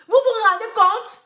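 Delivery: high, loud and slow, each word hammered; indignant outcry. Real, not acted. To the bloggers, an indignant loud repeat.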